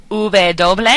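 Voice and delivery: V doble said "OO-beh DOH-bleh"; Spanish letter name. Shown as a demonstration. Teacher giving another pronunciation of W, careful Spanish. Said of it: "You can say".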